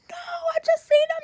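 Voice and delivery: breathless disbelieving whisper; shocked whisper. Retold or imitated. Telling her mom about Uncle John, stunned whisper. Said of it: "I'm like".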